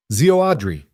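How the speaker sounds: lightly voiced boy, high and eager; a hint of a six-year-old calling out; excited little boy. Boy greeting his uncle, lightly voiced child.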